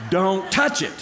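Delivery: wife calling out a frightened warning; alarmed warning. Retold or imitated. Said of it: "something has scared her".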